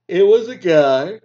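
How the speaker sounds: loud and drawn out, a bit strange; loud, slow. Retold or imitated. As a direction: belt it out slowly, mock startled. Reenacting the loud sneezer.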